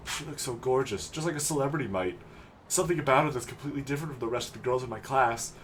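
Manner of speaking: lightly voiced dreamy kid; a hint of boyish infatuation; lovestruck teenage boy. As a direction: sigh over a crush like a schoolboy.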